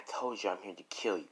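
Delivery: soft, cold repeat of the threat; quiet and deadly calm; menacing. Acted. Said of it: "she's like".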